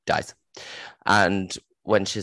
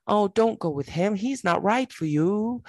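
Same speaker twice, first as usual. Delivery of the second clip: high, sweet nagging mum voice; mock mother; 13 semitones higher than usual. Mother pleading with her daughter, high mock voice. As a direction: coo it like a fussing mother, pitched way up. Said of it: "she can't say to her daughter".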